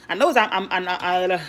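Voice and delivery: tripping over I'm, restarting again and again; excited, words stumbling out; stuttering while cooking on camera; hyper stuttering. Real, not acted. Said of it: "I'm still hyper and I'm stuttering".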